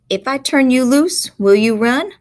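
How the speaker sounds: woman's country dialect. Acted. Woman tests whether the boy will run, loud dialect. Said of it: "with the dialogue in the dialect".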